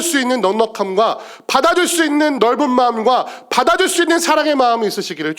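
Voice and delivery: high, insistent pulpit appeal; impassioned preaching. Real, not acted. Preacher urging the church to receive others' sorrow, impassioned. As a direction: press each phrase home with fervour.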